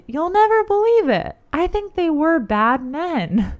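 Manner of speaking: put-on lightly slurred, swaying drunk voice; a hint of a tipsy man slurring his words; drunken slur. Old friend calls out on the street, mildly slurred. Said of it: "swaying and speaking with a, uh, definite slur".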